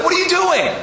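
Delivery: very high, loud mock protest; hammed-up panic at what's being done; outraged cry. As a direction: yell it in horrified disbelief. Brother protests at torn ticket.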